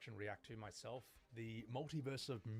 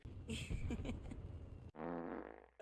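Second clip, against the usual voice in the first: low, silly imitated giggle; giggling fart face; 9 semitones lower than usual. Showing the joke reply sent to abusers, mock giggle. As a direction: giggle low like a cartoon creature. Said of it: "the Red Thirteen giggling fart face".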